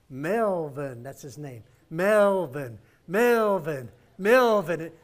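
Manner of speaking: loud chant-like calling over speakers; calling out a name. Retold or imitated. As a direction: call the name like a race announcer.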